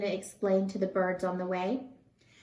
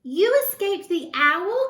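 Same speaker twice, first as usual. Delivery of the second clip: much higher, louder cry of joy; joyful cry; 10 semitones higher, 9 dB louder than usual. A narrator's reading. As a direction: burst out at the reunion. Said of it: "cried Stellaluna".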